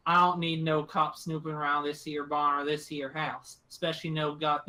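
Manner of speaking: lightly voiced rural captor, disgruntled; grumbling country woman. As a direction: grumble in country talk about unwanted visitors. GM voices gun-toting woman.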